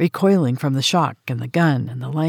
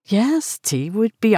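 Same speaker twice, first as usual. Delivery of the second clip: eager; 7 semitones higher than usual. Acted. Eager young American.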